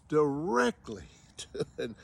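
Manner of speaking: laughing so as not to cry; pained laugh. Real, not acted. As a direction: let a rueful laugh break into the line. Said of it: "I'm laughing".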